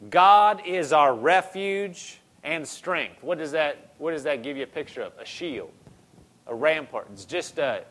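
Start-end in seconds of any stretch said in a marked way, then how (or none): 0.1-3.2 each word slowly weighed, a little louder; slow scripture reading. Shown as a demonstration. Preacher opens verse one to the church, slow solemn reading. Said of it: "Verse one".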